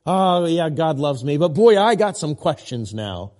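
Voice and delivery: put-on loud 'Oh, yeah... but boy' full of questions; a believer who keeps stressing 'questions'; wrong way, doubting. Shown as a demonstration. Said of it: "switch it up".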